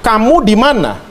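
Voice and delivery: mild, even question; not angry. Shown as a demonstration. Preacher demonstrating God's question to Adam, not angry. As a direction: ask it calmly, without any anger. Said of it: "itu intonasinya tidak marah sama sekali".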